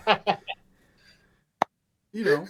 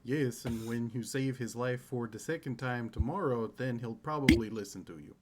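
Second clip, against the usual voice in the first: nonchalant mutter; 3 semitones lower, 3 dB quieter than usual. Acted. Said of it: "nonchalantly, I mutter".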